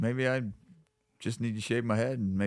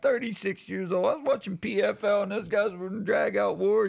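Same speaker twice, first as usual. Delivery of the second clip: quoting a friend; 11 semitones higher than usual. Retold or imitated. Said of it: "He's like".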